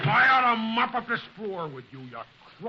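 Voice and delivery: loud, furious threat; angry threat. Acted. Wilmer threatening the crook, loud and furious. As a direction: threaten to wipe the floor with him.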